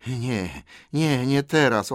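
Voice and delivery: fretful Gollum. Acted. Gollum puts Bilbo off, fretful creature voice.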